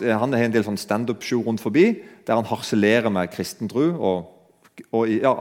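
ordinary talk, nothing marked

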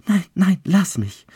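high, loud panicked protest; frightened pleading. A narrator's reading. Bride fights out of Childeret's grip, frightened. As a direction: twist away in terror.

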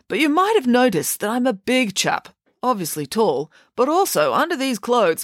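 high, self-satisfied big schoolboy; earnestly showing off his build; Binky. A narrator's reading.

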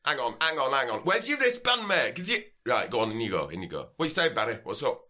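hammed-up sozzled Yorkshire lad; drunk Yorkshireman. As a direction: drunk Yorkshire festival-goer demanding a wristband. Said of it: "determined slasher from Yorkshire".

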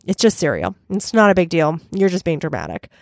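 flat, low, unbothered dismissal; deadpan. Retold or imitated. Roommate dismissing a complaint about cereal, deadpan. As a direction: brush it off in a bored monotone. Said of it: "totally deadpan".

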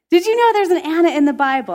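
fast, high, loud, laughing retake of "know"; laughing repeat. Retold or imitated. Preacher repeating her friend's question, fast and laughing. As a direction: echo it in amused disbelief.

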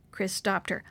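plain reading voice

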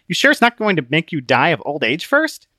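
lightly voiced teasing question; Book, skeptical. Book looking down at Christian, skeptical.

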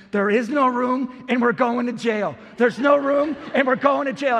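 loud, panicked repeated cry; kid yelling. Retold or imitated. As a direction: yell it like a scared rule-follower. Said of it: "He starts yelling".

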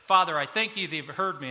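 "Father" called out loud and proud; showy out-loud prayer to the Father; loud public prayer. Retold or imitated. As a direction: proclaim it to the crowd, loud. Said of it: "can you hear Jesus say it like this".

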